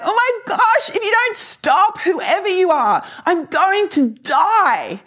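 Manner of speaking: high, overwhelmed exclamation, slowing at the end; retold crying out. Speaker cries out to the overpowering presence, retold overwhelm. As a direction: act out overwhelmed joy in a high voice. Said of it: "crying out and being like".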